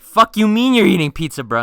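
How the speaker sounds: high, loud acted disbelief; incredulous yell. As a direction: burst out at your clueless friend. Acted disbelief at pizza during lockdown.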